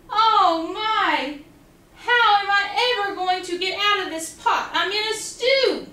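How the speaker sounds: high, mildly fretful cry; a touch of playful panic; mock worried duck. Quackling trapped in the pot, mock worried.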